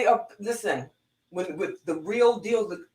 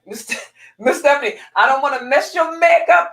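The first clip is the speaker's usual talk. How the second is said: giggly, much higher and louder quote; laughing through words; 9 semitones higher, 8 dB louder than usual. Retold or imitated. Former student laughing as she teases her teacher, laughing. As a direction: laugh while getting the words out. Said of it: "she started laughing".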